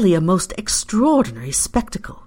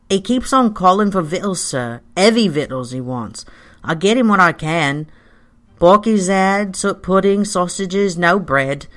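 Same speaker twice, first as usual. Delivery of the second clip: working woman's lively complaint, louder on key words; fretful housekeeper; 3 semitones higher, 3 dB louder than usual. Acted. Housekeeper complains to visitor about master's eating, fretful. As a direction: voice a housekeeper reporting on her troublesome master.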